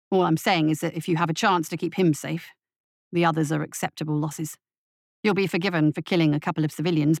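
low, quick pragmatic voice; deputy's warning. Acted. Deputy warning the captain about the minister, low and fast. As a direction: press the point, fast and low.

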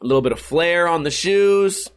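normal talking voice

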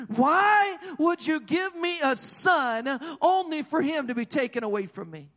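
a grieving mother crying out over her son; distressed cry. Acted. Mother begging the prophet at his feet, anguished and high. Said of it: "she begins to cry out to him, and she's in distress".

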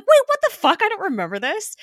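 high, loud burst of retold shock; shocked disbelief. Fan reliving a forgotten final scene, shocked disbelief. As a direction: blurt it out, voice shooting up in disbelief.

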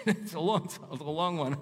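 high, loud laugh into the words; laughing aside. Real, not acted. Preacher laughing to the congregation about the long passage. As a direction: chuckle at how long the reading ran.

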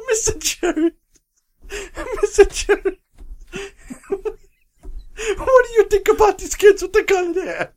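squeaky mock Italian Pope fretting; hammed-up Italian accent cracking up; bad Italian accent. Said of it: "stereotypical bad Italian accent".

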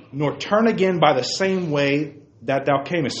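emphatic, measured Bible reading; declaimed scripture, key phrases lifted. A narrator's reading. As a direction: read the verse out to the congregation with weight. Reads scripture aloud.

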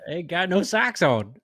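hammed-up redneck joke line; hillbilly voice. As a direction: play the country yokel. Echoing the hick bit.

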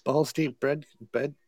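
speaking with a swollen tongue; tongue feels too big to talk. Real, not acted. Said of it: "I think my tongue is swole up".

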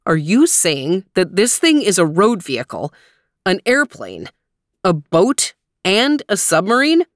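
amazed. Acted. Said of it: "asked Daddy in amazement".

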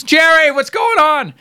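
high, drawn-out cab driver's holler; imitated yell. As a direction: mimic a cabbie calling out to a star. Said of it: "rooftops yelling".

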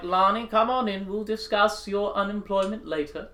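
Goblin King voice. Acted. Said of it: "He's like".

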